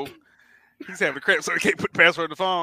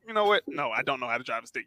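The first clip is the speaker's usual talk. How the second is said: ordinary delivery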